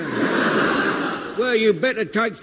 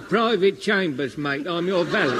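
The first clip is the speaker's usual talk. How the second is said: easygoing Cockney valet; broad London Cockney, matey; Cockney servant introducing himself; Cockney accent; 3 semitones lower than usual. Acted. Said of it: "You're a South Pacific Cockney?".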